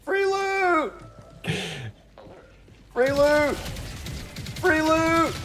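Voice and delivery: very high robotic sing-song call; auto-tune yell. Pretend. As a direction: belt it like a singer's auto-tuned hook. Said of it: "auto detune".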